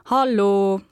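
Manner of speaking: Hallo a touch irritated and clipped short; a mildly fed-up Hallo; annoyed. Shown as a demonstration. Linguist demos an annoyed greeting, mild irritation. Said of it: "da sind ich genervt".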